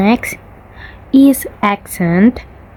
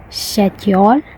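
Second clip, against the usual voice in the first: Indian "schedule" with no k, rising; Indian accent; 3 dB quieter than usual. Shown as a demonstration. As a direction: say "schedule" the Indian way, like "shed-yol".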